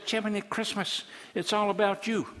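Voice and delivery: a touch of exasperated preaching; exasperated God. Acted. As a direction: let God's patience run out.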